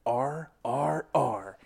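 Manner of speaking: drawn out, each letter spaced wide; slow deliberate repeat. Retold or imitated. Kid repeating the letters to the teacher, slow and deliberate. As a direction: spell it slowly as if to a slow listener. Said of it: "I'm gonna give the first one to you. Here you go".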